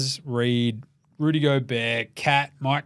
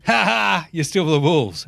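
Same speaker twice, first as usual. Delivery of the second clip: lightly taunting cackle of the basketball gods; a hint of gleeful mockery; mocking gods; 2 semitones higher, slower than usual. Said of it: "everyone just going".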